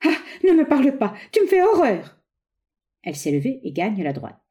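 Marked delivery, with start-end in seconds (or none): 0.0-2.2 high-pitched revulsion; abrupt rejection. A narrator's reading. Lucette repels her lover as memory returns, high and horrified. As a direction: push the person away with your voice. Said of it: "brusquement le repoussant".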